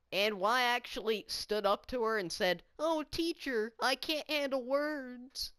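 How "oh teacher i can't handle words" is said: high mocking whine; a hint of a sneering classmate, higher pitched; mocking the teacher. Mimicking the classmate to the teacher in a mocking voice. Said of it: "made fun of her like that".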